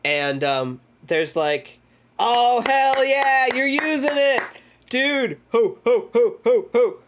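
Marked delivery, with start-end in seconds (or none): 2.2-7.0 much higher, louder, slow whoop into ho ho ho; real excited whooping; hyped cheer. Real, not acted. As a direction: celebrate the emotes like a win. Cheering at new emotes.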